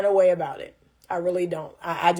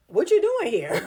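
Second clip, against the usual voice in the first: puzzled brush-off; 6 semitones higher than usual. Retold or imitated. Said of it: "I am literally like".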